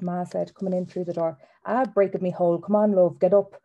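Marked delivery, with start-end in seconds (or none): 1.6-3.6 louder, hearty brush-off in story dialogue; acted dad, building louder; dismissive dad. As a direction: brush it off and urge them up. Father brushes off, coaxes loudly.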